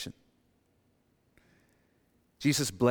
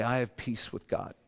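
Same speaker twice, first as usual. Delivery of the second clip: sincere declaration; 6 dB quieter than usual. Shown as a demonstration. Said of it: "and say".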